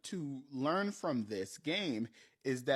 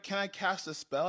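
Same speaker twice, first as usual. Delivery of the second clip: higher, lightly imitated kid asking; lightly voiced niece; 5 semitones higher than usual. Niece asking the game master for a spell, lightly imitated. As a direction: ask as a hopeful player, lightly imitated. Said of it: "she was like".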